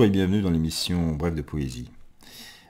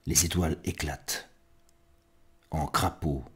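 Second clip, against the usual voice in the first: measured poetry reading with long pauses; spare, solemn recital, phrase by phrase; poem recitation. Acted. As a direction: let each fragment hang in silence, swelling then fading.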